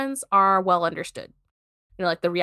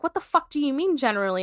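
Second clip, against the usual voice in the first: higher-pitched, indignant retelling; upset client; 5 semitones higher, faster than usual. Retold or imitated. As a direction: imitate an upset client demanding answers. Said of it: "the client gets fucking upset 'cause she's like".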